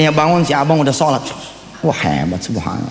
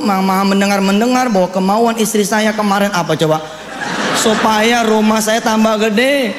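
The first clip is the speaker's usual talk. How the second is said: mock pleading prayer; 4 semitones higher than usual. Husband's comic prayer acted out.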